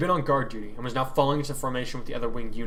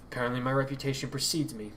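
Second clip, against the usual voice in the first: dryly; 4 dB quieter than usual. Acted. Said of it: "the woman replied dryly".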